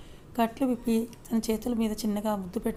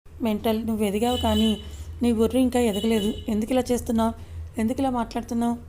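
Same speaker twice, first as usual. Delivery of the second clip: louder, rising exasperation at her; exasperated scolding; 4 dB louder than usual. Acted. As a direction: scold her, voice going up in frustration. Husband scolds upset wife.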